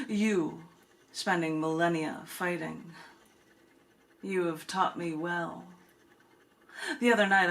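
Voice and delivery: recited as a poem with long pauses between lines; spoken-word poem recital; poetry reading. Acted. Reads the poem Orion.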